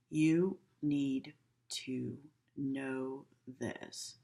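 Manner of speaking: slow, flat, stern warning; cold stern tone. Shown as a demonstration. Teacher showing students a harsh tone, slow and stern. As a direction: make it sound like a scolding. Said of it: "if I speak like this".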